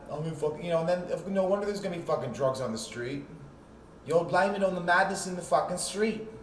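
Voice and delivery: a mocking, rough English hillbilly accent. Mocking Long Island kids in an English hillbilly accent. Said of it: "I don't know what kind of accent that was".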